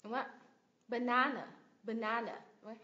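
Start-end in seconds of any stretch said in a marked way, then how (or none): 0.9-2.4 "Banana" with weak outer syllables; schwa syllables. Shown as a demonstration. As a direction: stress NA in the middle, reduce the rest of "Banana". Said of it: "Hai âm xoa sao".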